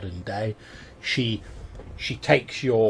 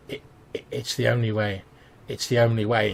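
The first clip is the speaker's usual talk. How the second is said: breathy whisper; 3 dB louder than usual. Acted. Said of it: "in a sort of breathy voice".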